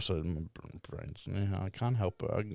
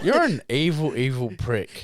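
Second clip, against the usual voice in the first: laughing insult; 6 semitones higher, 8 dB louder than usual. Real, not acted.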